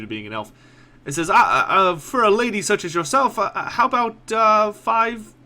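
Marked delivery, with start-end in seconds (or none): 1.3-5.3 dazzled by the elf, stammering; smitten merchant. Acted. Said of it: "mesmerized by the lilting tone".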